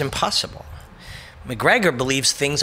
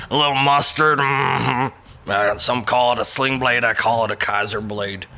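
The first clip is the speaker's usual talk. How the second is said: Dewey Cooper voice; 3 semitones lower than usual. Retold or imitated. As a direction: do a backwoods Sling Blade impression. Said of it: "my Dewey Cooper accent".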